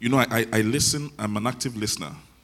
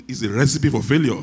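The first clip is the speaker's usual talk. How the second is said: laughing, higher and louder retold complaint; amused lament; 5 semitones higher, 7 dB louder than usual. Preacher retelling his complaint to God, amused lament. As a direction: let the complaint break into a laugh.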